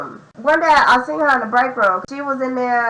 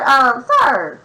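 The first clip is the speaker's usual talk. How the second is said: a sharp, raised "sir" to cut him off; firm call-out. Retold or imitated. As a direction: stop him mid-script with one firm word. Cutting off the scripted caller.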